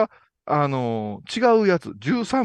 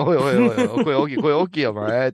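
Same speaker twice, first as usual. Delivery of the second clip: alarmed protest; 5 dB louder, faster than usual. Retold or imitated. Voicing staff member alarmed.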